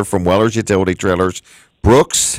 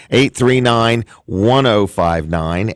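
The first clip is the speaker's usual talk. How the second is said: slowly spelling out each digit; slow, clear phone number read; slow and deliberate; much slower than usual. Shown as a demonstration. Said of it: "I want to give you the phone number again".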